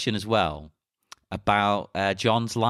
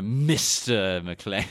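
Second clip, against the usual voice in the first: slow, drawn-out put-down; condescending; 4 semitones lower, much slower than usual. Retold or imitated. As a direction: say it slowly, looking down on him. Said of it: "condescending again".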